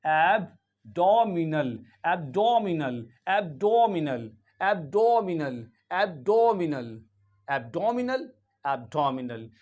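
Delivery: एब्डोमिनल repeated slowly, first one very drawn out; repeated slow demo. Shown as a demonstration. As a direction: drill एब्डोमिनल slowly, "ab-DOM-i-nal". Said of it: "तो यहाँ पे क्या हो जाएगा?". (एब्डोमिनल को धीरे-धीरे दोहराएँ)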